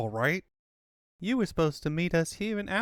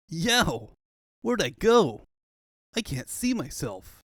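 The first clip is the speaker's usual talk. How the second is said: startled; 3 semitones higher, 3 dB louder, slower than usual. Acted. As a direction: jolt at your own vanishing. Sonic finds himself invisible.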